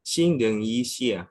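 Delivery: slow, careful Mandarin example. Shown as a demonstration. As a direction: say each syllable slowly for the students.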